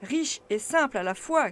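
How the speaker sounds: loud, scornful professor; brisk retort. A narrator's reading. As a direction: snap back with contempt. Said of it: "riposta vivement".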